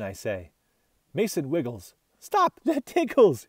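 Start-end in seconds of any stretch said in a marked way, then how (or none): 2.2-3.5 giggling through the words. A narrator's reading. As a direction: ticklish laugh breaking in. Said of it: "he giggles".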